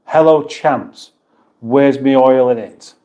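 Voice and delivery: lightly put-on, drawn-out British accent; mock a silly British accent slightly; stupid British accent. Streamer reading a chat message in a stupid British accent. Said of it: "in a stupid British accent".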